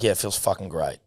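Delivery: flat, bored monotone. Retold or imitated. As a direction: say it in a dead monotone. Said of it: "with just, uh, an intense monotony".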